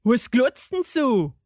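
put-on gnome indignation; angry garden gnome. A narrator's reading. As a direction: grumble in dialect like an irate gnome. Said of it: "sah sie zornig an".

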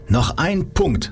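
high and slow, each word placed; slow emphatic urging. Acted. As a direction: lift it up and hold it out. Coach urging his friend on.

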